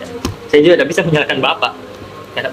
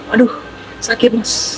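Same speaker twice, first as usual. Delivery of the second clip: breathy cutesy giggly plea; cutesy girl voice; 6 semitones higher, 5 dB quieter, slower than usual. Retold or imitated. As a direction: squeak it like a cute girl in pain. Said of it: "wanita imut yang mengatakan".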